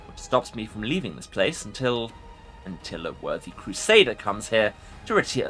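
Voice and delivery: low growling lich; growling undead king. Acted. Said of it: "A low growl escapes the Lich".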